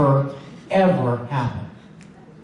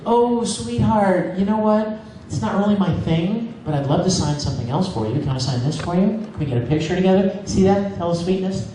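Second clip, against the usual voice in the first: gentle answer to a fan; 3 semitones higher than usual. Shown as a demonstration. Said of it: "This is exactly how it goes".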